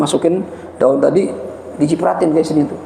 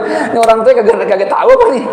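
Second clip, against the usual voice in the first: incredulous; 4 semitones higher than usual. Retold or imitated. Mock outrage at parents naming.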